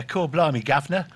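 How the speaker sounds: loud mock Cockney exclamation. Shown as a demonstration. English guest shows the host a Cockney accent, hammed-up Cockney. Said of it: "what about Cockney".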